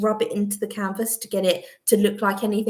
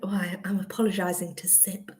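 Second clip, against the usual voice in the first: whispered aside; 6 dB quieter than usual. Real, not acted. Aside while sipping water.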